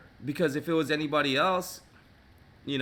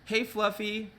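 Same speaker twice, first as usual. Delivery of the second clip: higher, fast sing-song owner talking to her dog; sweet owner voice; 5 semitones higher than usual. Pretend. Owner telling the dog about the groomer, sweet and high. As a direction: coo at the dog like a doting owner. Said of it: "the owner told them".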